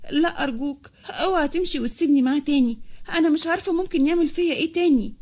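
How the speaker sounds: acted victim's urgent pleading; frightened pleading. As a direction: beg him not to leave, feigning fear. Feigned victim begging not left.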